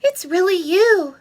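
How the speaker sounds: high, loud joyful cry; shouted. Acted. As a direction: shout it with delight. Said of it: "the little girl shouted".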